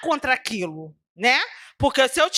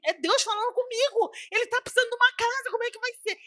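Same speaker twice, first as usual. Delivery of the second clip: high, softer anguished questioning; retold tearful worry; 8 semitones higher, 5 dB quieter, faster than usual. Woman wondering whether God wants her house, retold tearful worry. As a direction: imitate fretting through tears. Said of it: "E eu chorava".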